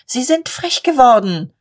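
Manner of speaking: outraged bystander's exclamation; indignant outburst. Acted. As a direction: scold the mob with rising outrage. Indignant bystander about the mob.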